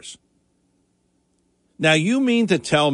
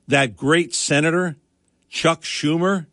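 sarcastic praise, said dryly; mock-respectful title with an ironic edge; facetious. Real, not acted. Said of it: "I'm being facetious".

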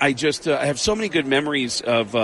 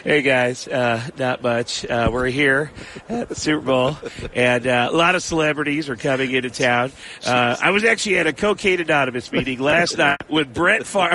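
Tom Arnold impression. Comedian doing Tom Arnold live on Des Moines radio, lightly voiced. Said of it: "go full-blown Tom Arnold".

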